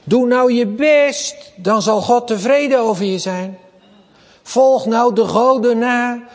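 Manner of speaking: mimicking works-religion, high and loud; pressuring voice. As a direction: push hard like a demanding religion.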